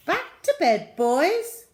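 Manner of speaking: high, loud stern command; stern aunt. Acted. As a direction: send the boys back to bed. Aunt ordering boys to bed.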